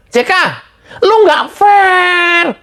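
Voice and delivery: high, very slow, strained cry of protest; indignant cry. Real, not acted. Host protesting JK is unfair, indignant cry. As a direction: cry out at the injustice.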